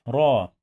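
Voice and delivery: را held as a long "raa"; long vowel alef. Shown as a demonstration. Teacher showing long vowel ألف, long "raa" in را. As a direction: stretch the a in را. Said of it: "Long vowel ألف".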